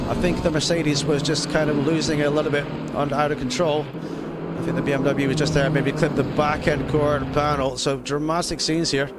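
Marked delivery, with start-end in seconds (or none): 0.1-7.8 motorsport commentator. Acted. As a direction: lively race play-by-play. Live race play-by-play.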